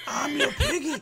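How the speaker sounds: very high piggy voice; hammed-up high piglet; little piggy voice. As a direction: squeak it like a playful little pig. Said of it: "or, like".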